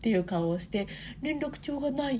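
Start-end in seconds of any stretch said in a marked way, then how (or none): 1.2-2.2 higher, tearful half-crying, trying to hide it. A parent retells what their son said while waiting by the shoes, imitating him half-crying. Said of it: "息子がもう「半泣き」で".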